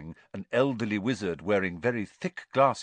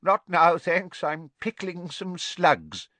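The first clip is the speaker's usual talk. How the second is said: sleepy muttering; 9 semitones higher, 5 dB louder, slower than usual. A narrator's reading.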